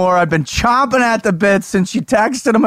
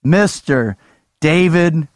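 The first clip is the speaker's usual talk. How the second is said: ringmaster; slower than usual. Acted. Announcing guest like a showman.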